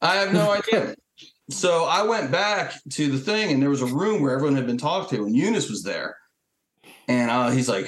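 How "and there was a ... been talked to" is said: ordinary talk, nothing marked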